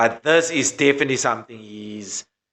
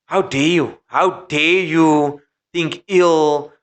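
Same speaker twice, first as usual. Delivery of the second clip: mock outrage; 2 semitones higher, much slower than usual. Mocking Fox presenters' outrage.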